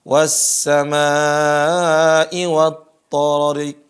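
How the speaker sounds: "wat-tariq" chanted with the syllable "ri" wrongly stretched; mistaken long ro. Shown as a demonstration. Teacher imitates students' error, chanted "tariq" with a long ri. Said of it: "huruf ro-nya dibaca panjang".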